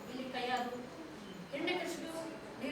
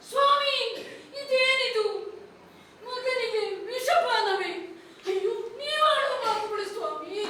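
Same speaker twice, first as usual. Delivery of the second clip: shocked dismay; 4 semitones higher than usual. Acted. Mother hears order to poison son.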